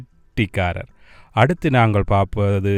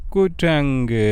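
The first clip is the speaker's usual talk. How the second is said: குரங்கு a little raised and stretched; loud for repeating; 3 semitones higher than usual. Shown as a demonstration. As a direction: lead children in a clear, lifted குரங்கு. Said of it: "சத்தமா சொல்லுங்கோ". (சற்று உயர்த்தி சத்தமாக சொல்லும் குரங்கு)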